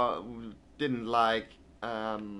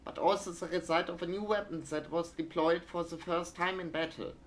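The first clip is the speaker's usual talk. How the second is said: crisp newsreader voice, slightly higher; news read; 8 semitones higher than usual. Acted. Streamer reads a German newspaper like a newsreader. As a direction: read it like an old wartime newsreel. Reading in-game newspaper aloud.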